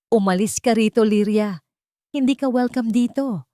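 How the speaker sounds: loud, high shout to drive her out; angry shouted order. A narrator's reading. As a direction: yell at her to get out. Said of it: "sigaw ni Maribel".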